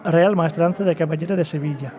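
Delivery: full Spanish accent on the name. Shown as a demonstration. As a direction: sound like a guy from Seville. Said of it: "He turned to, like, it's a different person right now".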